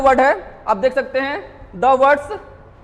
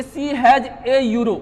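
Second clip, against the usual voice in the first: slow, careful reading of the example; much slower than usual. Shown as a demonstration. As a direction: read each word out slowly. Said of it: "sounds like यूरो".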